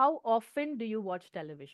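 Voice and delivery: ordinary talk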